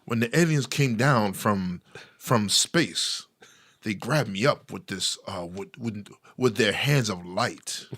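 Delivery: lightly put-on slow baritone storyteller; Riley Martin. Imitating a man telling of his alien abduction, a hint of baritone. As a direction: stretch the words out, pausing solemnly. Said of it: "baritone voice".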